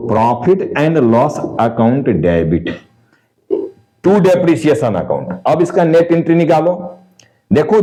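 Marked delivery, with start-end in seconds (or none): 0.1-5.3 slow, spaced words for note-taking; slow dictation. Shown as a demonstration. Teacher dictating the closing entry, slow and even. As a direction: spell it out slowly word by word.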